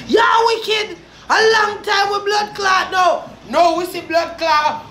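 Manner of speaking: real outburst at the thief; angry shouting. Real, not acted. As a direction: tear into him, full voice. Furious rant at rival.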